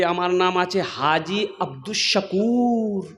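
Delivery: low, soft, slow introduction; pompous, unhurried haji introducing himself; self-important haji. Acted. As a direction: draw the title out with mock dignity. Haji proudly announces his title.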